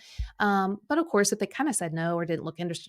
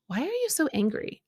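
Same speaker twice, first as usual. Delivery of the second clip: higher, kindly question; kind, soft voice; 7 semitones higher than usual. Retold or imitated. God speaking to her in the angry car ride, kind voice. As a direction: ask it gently, without reproach. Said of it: "hear this kind, soft voice say".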